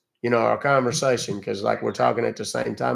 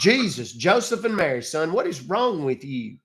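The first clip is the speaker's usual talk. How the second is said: exasperated outburst; 4 semitones higher than usual. Real, not acted. Scolding tech support caller.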